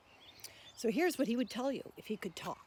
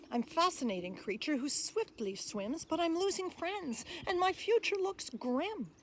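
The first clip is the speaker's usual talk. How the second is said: louder, bouncy rhyming voice of the tapir; tapir reciting; 5 semitones higher, 4 dB louder than usual. Acted. Tapir pleading with listeners to be saved, lively recital. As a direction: speak as the friendly tapir asking for help. Otter speaks its poem.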